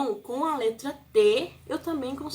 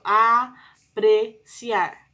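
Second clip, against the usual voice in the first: "Apreciar" stretched into louder, separate syllables; slow sounding out; 8 dB louder, much slower than usual. Shown as a demonstration. Teacher rereading after trouble reading, slow emphatic syllables.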